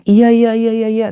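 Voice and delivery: high string of obliging yeses; eager agreement. Retold or imitated. Retold polite repeated agreeing. (mengiyakan berulang dengan nada tinggi)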